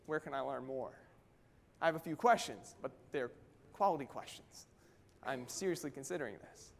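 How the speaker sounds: a hint of a curious, serious buyer; keen prospect. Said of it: "there's the prospect who says".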